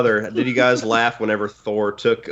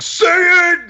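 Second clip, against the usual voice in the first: high, loud, thrilled yell at the screen; excited shout; 5 dB louder than usual. Retold or imitated. Fan yelling at the screen for Tony, loud and high. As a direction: urge him on at full voice. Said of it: "I was like".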